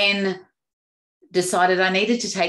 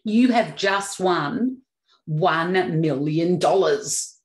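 announcer; slower than usual. Shown as a demonstration. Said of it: "the person on the other end says".

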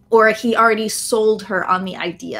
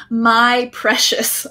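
slow, lightly voiced Gollum; 3 dB louder, much slower than usual. Shown as a demonstration. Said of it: "There he goes".

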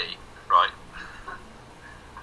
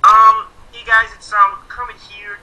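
Sam impression; 6 semitones higher, 11 dB louder, slower than usual. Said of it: "Andy didn't think I sounded like him".

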